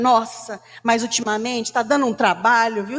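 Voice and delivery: a mild mock grumble about the chores; praguejando. Shown as a demonstration. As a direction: grumble lightly as if the housework is a burden. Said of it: "Isso é praguejando". (resmungando de leve, imitando quem pragueja)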